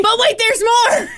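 high, loud pitchman voice; infomercial. Acted. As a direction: sell it like an infomercial. Infomercial catchphrase.

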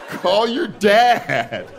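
very slow, high, sing-song; white woman phrase. Retold or imitated. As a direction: stretch each word with breezy certainty. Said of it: "That is a white woman phrase".

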